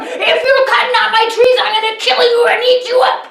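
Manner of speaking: high, loud hammed-up troll roar. A narrator's reading. Troll threatens the second brother, mock roar. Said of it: "screaming and roaring".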